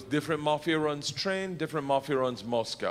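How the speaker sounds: a hint of Russian English; Russian gangster accent. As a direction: play a matter-of-fact Russian gangster. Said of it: "a real Russian gangster".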